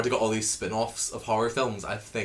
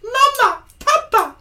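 very high bleating goat cry; 10 dB louder, much slower than usual. Acted. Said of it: "That was my goat impression".

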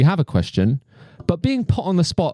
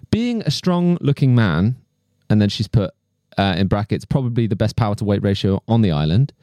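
reading a letter aloud. Acted. Reads out fan letter.

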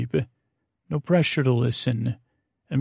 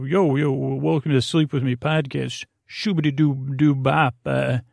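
mock hype podcast intro. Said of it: "I could just replay the same intro or go".

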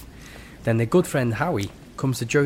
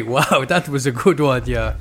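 loud mock German praise; comic German accent; loose German accent; 5 dB louder than usual. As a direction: cheer a pal on in a rough German accent. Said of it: "I'm doing a very loose German accent".

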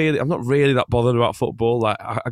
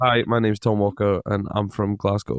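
Scottish accent; 2 semitones lower than usual. Shown as a demonstration. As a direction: put on his Scottish accent for the host. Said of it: "Give us a whirl of your Scottish accent".

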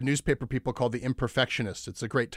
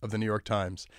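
mock feature promo. Reads satirical tweet as feature promo.

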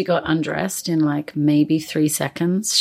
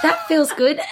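mock pleased; 9 semitones higher than usual. Mocking a pleasant sex remark.

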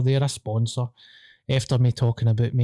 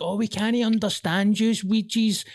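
mock complaint; 7 semitones higher than usual. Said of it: "everybody's like".

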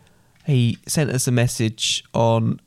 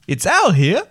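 higher, lilting attempt at a Belgian accent; 6 semitones higher, 4 dB louder, slower than usual. Child introducing himself as their friend Al, attempted Belgian accent. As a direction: put on a makeshift Belgian accent. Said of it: "try and read it in his accent".

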